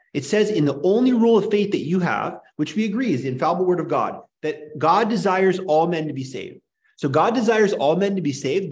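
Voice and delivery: getting worked up and pressing the point hard. Real, not acted. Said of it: "I am getting worked up".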